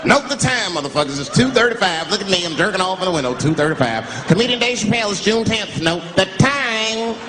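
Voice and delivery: calling out. Pretend. Calling out to witnesses.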